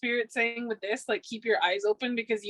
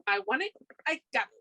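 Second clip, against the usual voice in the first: a singer; 2 semitones higher than usual. Retold or imitated. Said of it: "a singer".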